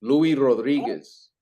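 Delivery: slowed-down, drawn-out name. Real, not acted. Host repeating a name for his confused guest, slowly.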